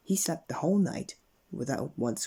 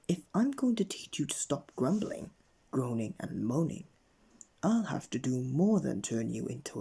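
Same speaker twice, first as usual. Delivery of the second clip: menacing threat. Acted. Wizard threatens bigger punishment.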